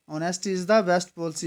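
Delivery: honesty is the best policy said at half speed, word by word; slow dictation. Shown as a demonstration. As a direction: dictate it slowly to the class. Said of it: "next question बोलता है कि".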